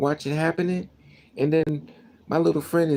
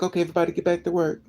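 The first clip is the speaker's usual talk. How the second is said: fast, brushing it off like a careless boss; mock dismissive boss; faster than usual. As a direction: rattle it off as if nothing happened. Mocks boss after death.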